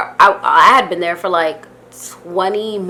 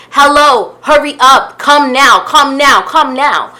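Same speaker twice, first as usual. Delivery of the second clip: retold impatient calling, each short phrase pushed out; impatient urging; 3 dB louder, slower than usual. Car sitter urging girlfriend to come out, impatient. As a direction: hurry someone along in insistent bursts.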